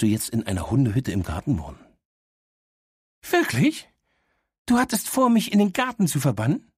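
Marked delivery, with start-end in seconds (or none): 3.3-6.7 dog voice jumping much higher in shock; outraged disbelief. Acted. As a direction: she can't believe he'd banish her. (fassungslos empört, deutlich höher)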